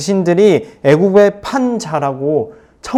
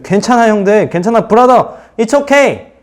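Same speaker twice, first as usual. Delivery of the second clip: higher-pitched, lightly acted comforting; mock-casual higher-voiced consolation; reassuring; 6 semitones higher than usual. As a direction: reassure your brothers, pitched up. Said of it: "위로해주는 거예요".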